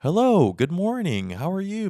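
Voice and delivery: a hint of stiff office politeness; mock formal greeting. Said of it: "No one's like".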